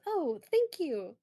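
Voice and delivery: pleased doctor, pitch lifting on the praise; lightly acted, delighted thanks; smiling thanks. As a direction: thank them with an audible smile. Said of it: "smiles at her and goes".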